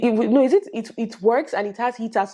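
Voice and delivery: ordinary delivery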